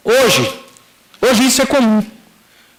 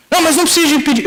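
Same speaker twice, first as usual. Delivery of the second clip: higher-pitched brush-off, acted out; dismissive father; 7 semitones higher, faster than usual. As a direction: imitate a father waving away an apology. Father brushes off apology, retold.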